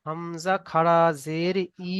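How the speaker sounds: slow recitation ending on a long held "ই"; drawn-out vowel. Shown as a demonstration. Teacher showing students the one-alif stretch, drawn-out "ই". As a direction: hold the final "ই" for a full stretch. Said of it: "শুধু এক আলিফ পরিমাণ টান হবে".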